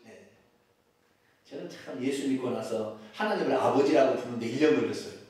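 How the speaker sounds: ordinary delivery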